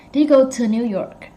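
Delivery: "to" as a short unstressed tuh; reduced "to". Shown as a demonstration. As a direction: keep "to" weak, like tuh. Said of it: "Like that".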